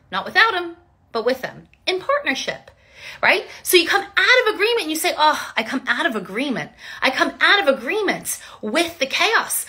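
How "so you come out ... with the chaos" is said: laughing. Real, not acted. Laughter breaking into declaration.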